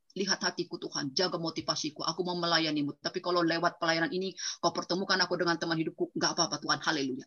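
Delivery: soft, hushed retold prayer; quiet prayer. Young man praying softly to God for a partner, hushed. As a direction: murmur it like a private prayer.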